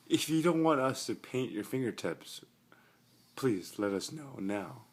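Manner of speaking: loud formal announcement. Acted. Loud mock-formal address to sleeper.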